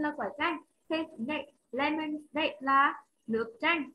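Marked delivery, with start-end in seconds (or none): 1.7-3.9 slow explanation. Shown as a demonstration. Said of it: "teacher explains slowly".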